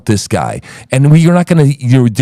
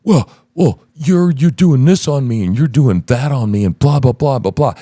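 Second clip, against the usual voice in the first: mock victim. Host imitates guest playing the victim, mockingly. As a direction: parrot a victim's grievances, trailing into blahs. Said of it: "You're playing the victim".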